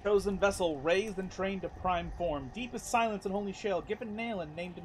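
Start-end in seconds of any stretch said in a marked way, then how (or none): 0.0-0.4 slow, measured reading of a sacred verse; lightly solemn inscription reading; solemn recital. Acted. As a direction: intone it like an old prophecy. Reads the in-game inscription aloud.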